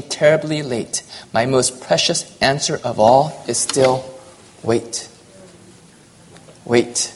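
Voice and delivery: measured, earnest recitation of a devotional poem; poem reading. Acted. Preacher reciting a poem to his congregation, earnest and measured.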